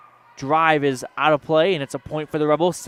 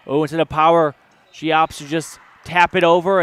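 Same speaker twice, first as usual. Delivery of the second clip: surprised call; 5 dB louder than usual. Real, not acted. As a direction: react to the sneaky tip. Surprise soft tap play.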